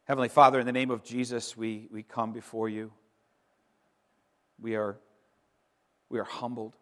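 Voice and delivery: hushed, humble closing prayer. Acted. Pastor closing the Easter sermon by leading the church in humble prayer. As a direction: pray softly, humbled before God.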